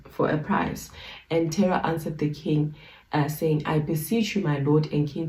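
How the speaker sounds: measured, formal Bible reading; scripture reading. Acted. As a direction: read the old text with solemn care. Reads scripture passage aloud.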